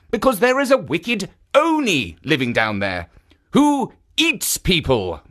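a lightly voiced kindly guardian; kindly statue voice. Jitso statue speaks.

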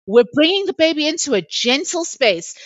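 high, insistent mock-soothing voice; imitated doula coaching. Doula coaches the screaming mother, imitated in a high voice.

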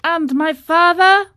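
high, loud frightened cry; alarmed. A narrator's reading. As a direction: blurt it out in sudden dread. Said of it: "the little boat must have been swamped".

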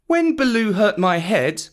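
put-on high, hurt little boy; sulky high-pitched child voice; plaintive Mowgli. A narrator's reading. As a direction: explain yourself like a wronged child. Boy defends himself.

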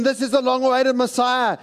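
a hint of giddy ambitious followers; eager disciples. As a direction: play the disciples dreaming of power. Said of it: "they're thinking".

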